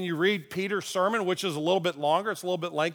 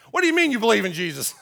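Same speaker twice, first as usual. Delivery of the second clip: mock angry; 2 semitones higher, 5 dB louder, faster than usual. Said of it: "Now I'm getting angry".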